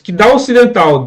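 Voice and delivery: "dá ocidental" run together as "daocidental"; "dá ocidental" linked with no break between the vowels; elided pronunciation. Shown as a demonstration. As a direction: glide "dá" straight into the "o" of "ocidental". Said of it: "Olha a pronúncia".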